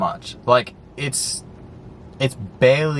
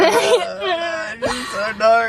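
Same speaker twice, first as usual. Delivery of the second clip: put-on hesitant girlfriend; much slower than usual. Mimicking partner's hesitant reply.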